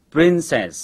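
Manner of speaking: "princess" with the last s held very long; drawn-out final s. Shown as a demonstration. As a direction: stretch the s at the end of "princess". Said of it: "Lúc đầu tập đọc, các em kéo dài âm".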